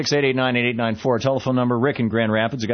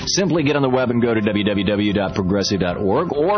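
punchy sales read with lively pitch swings; radio ad read. Acted. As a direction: sell it like a radio commercial. Recorded-style magazine ad read.

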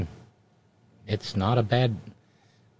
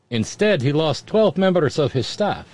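"twelve" said with a faint Russian accent; lightly Russian-accented read, "twelve" stressed. Shown as a demonstration. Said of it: "I'm assuming a Russian accent".

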